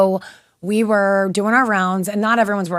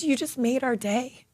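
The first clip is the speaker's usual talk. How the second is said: choked up; 5 semitones higher, 6 dB quieter than usual. Real, not acted. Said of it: "So I get choked up when I talk about this".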